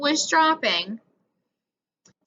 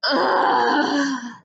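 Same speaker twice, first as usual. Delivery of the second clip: groan. A narrator's reading. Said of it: "Lucinda groaned loudly".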